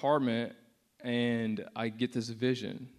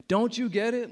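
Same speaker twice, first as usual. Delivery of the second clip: much higher, loud retold cry; yelling; 10 semitones higher, 6 dB louder than usual. Jesus on the cross to the atheist, impassioned retold yell. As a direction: cry it out passionately, imitating a yell. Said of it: "And he's yelling".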